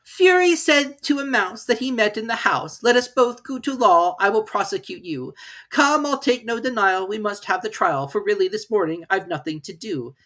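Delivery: high, loud bullying cur; sing-song rhyming threat; Fury the dog. Acted.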